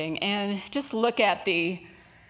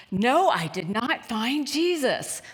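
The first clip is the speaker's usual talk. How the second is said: put-on slow, lightly slurred drunk reply; a touch of the tipsy man, drawn out; mildly voiced drunk, slow and stubborn; 3 semitones higher, slower than usual.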